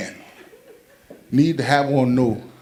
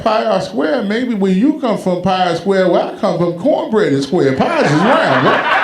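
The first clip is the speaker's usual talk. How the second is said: mock retort; 4 semitones higher than usual. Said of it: "I was like".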